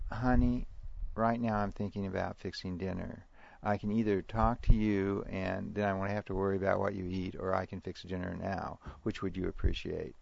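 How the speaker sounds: even, matter-of-fact parent offering choices; composed parent. Shown as a demonstration. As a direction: calmly lay out the options for a child. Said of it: "versus a parent who says".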